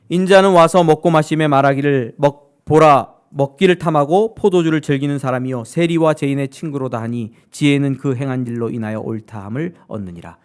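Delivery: loud, measured Bible reading; scripture reading. Acted. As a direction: read the verse out with weight. Reads scripture aloud. (힘주어 읽는 성경 낭독)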